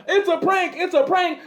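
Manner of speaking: parroting the excuse in a whiny voice; mocking prankster. Prankster caught out, whining mockingly. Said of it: "you using".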